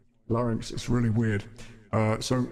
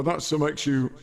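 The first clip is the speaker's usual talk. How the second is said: deep gender-shifted voice; 4 dB louder, slower than usual. Shown as a demonstration. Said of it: "Goodness knows how".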